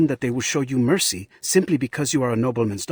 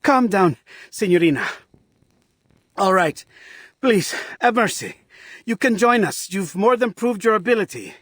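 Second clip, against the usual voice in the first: flustered surrender; 5 semitones higher than usual. Acted. Gives in to her display of power.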